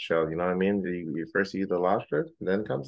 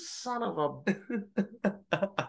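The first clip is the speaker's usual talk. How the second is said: laughing outrage; 10 semitones higher, 6 dB quieter, much slower than usual. Retold or imitated.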